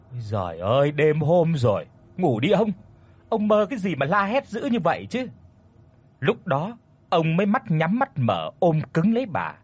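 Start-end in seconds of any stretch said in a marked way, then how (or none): 0.1-5.3 woken wife snaps at her husband; irritated, half-asleep scolding; grumpy scolding. Acted. Wife scolds husband for shouting at night, grumpy. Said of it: "mở choàng mắt lên mà gắt gỏng".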